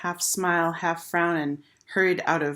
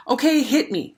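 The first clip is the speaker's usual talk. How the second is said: challenging; 8 semitones higher, 4 dB louder than usual. A narrator's reading. Fight challenge.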